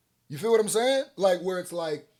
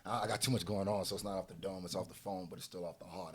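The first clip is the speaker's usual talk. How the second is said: mock excuse; 9 semitones lower, 12 dB quieter, faster than usual. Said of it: "He said".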